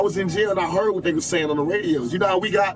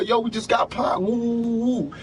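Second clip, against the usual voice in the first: mock boastful yell from jail; imitating a bragging shout; 4 semitones higher than usual. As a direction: play the gloating shooters crowing. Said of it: "'Cause they bragging".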